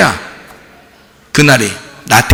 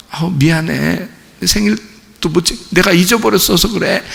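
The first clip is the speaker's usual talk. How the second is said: meek parent apology; 5 dB quieter than usual. Retold or imitated. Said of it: "그럼 엄마 아빠가 어떻게 해요?".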